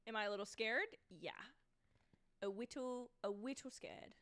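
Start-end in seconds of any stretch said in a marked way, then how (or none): 2.4-4.1 mock baby voice, R and L turned to W; cutesy, babyish pretend fear; playful baby talk. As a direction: say it like a tiny scared toddler.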